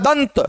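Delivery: दंत with a clear dental न before the त; tongue on the teeth for the n in दंत; dental n sound. Shown as a demonstration. Teacher showing students which nasal sounds, न in दंत. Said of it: "न का".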